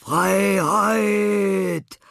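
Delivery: high, loud cry of freedom; joyful yell. A narrator's reading. Laurenz yells as he runs into the park, high and loud. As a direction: shout it as you burst into the park. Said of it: "brüllte Laurenz".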